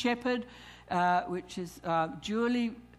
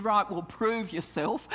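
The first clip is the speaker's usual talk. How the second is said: a lightly voiced cheeky dare; mock defiant challenge. Preacher mocking the wrong attitude to God, cheeky dare. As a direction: toss it off like a half-joking challenge to God. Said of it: "I don't do it with the attitude".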